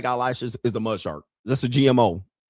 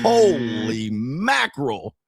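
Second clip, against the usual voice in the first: stunned, laughing; much slower than usual. Retold or imitated. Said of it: "I was like".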